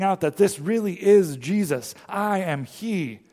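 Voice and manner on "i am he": slow "I am he" with "I" stressed and a falling end; emphatic. Acted. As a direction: land hard on "I", slowly. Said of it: "It is emphatic".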